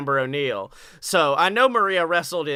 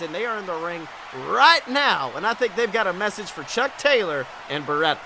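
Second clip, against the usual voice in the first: mild mock ring announcement; wrestling commentator. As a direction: build up the arrival like a TV commentator. Play-by-play host announces ring segment.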